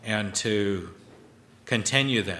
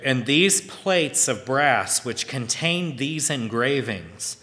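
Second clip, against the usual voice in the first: scripture reading; 3 semitones higher than usual. Acted. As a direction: read the verse like holy writ. Reads scripture aloud.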